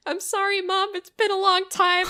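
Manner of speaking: high, softened imitation of crying; mock tearful. Son apologizing to his mom on the phone, mock tearful. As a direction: play a son tearing up, lightly voiced. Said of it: "he just starts crying".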